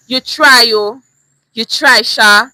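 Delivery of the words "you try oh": "You try, oh" with a dragged, falling "oh"; teasing "oh". Shown as a demonstration. Teacher tries a knowing "You try, oh". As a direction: let the "oh" hang, half-impressed. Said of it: "Same words, different signal".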